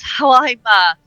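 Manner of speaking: lightly chuckled, hesitant admission; chuckling. Acted. Z admitting to experimenting on her own, chuckling. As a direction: let a small laugh break into the line. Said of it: "chuckles and says".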